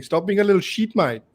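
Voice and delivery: imitated Perth mate's Aussie accent; light mock Australian accent. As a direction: copy an Australian friend's way of talking. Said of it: "That's exactly how he talks".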